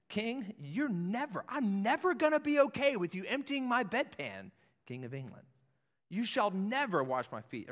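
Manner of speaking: high, loud, firm refusal; emphatic refusal. Retold or imitated. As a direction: insist he will never allow it. Acting Peter refusing the king.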